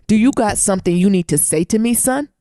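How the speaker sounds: lightly acted, deliberate challenge; dad getting right in his face; imitating menacing dad. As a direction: square up close, mock-threatening. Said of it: "I'm gonna get to the mic".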